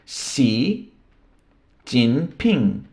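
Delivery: Xi Jinping with the Mandarin j as in tinping; Mandarin pronunciation. Shown as a demonstration. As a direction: say Xi Jinping the Chinese way, falling at the end. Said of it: "os chineses escrevem com estes caracteres". (Xi Jinping com pronúncia chinesa)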